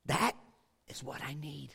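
hushed whisper, almost no voice; whispered admission of need. Real, not acted. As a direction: breathe it like a private confession. Quiet confession in sermon.

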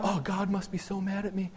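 hushed start climbing to high-pitched panic; hammed-up rising distress; mock freaking out. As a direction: start small, then squeal in pretend panic. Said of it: "I'd be freaking out".

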